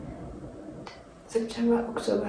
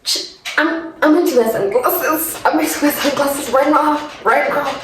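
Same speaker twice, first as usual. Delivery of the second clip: higher, choked voice close to crying; teary and flustered; 5 semitones higher than usual. Real, not acted. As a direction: rush to hide the tears, voice catching. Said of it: "I ugly cry".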